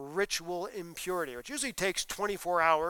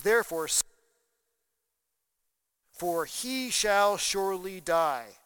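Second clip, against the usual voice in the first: loud death sentence; 6 dB louder than usual. Acted.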